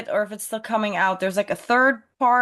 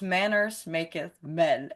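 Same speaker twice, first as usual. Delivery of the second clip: slow, low and soft quote; completely calm; 4 semitones lower, 6 dB quieter, slower than usual. Retold or imitated. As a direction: imitate an unhurried, quietly controlled line. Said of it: "He locks the door completely calmly".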